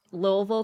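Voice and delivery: "Louisville," swallowed to two syllables, LUH-vul; "Louisville," said the Kentucky way, LUH-vul; local Southern pronunciation. Shown as a demonstration. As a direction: run "Louisville," together as LOH-vul. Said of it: "so I know how to say them".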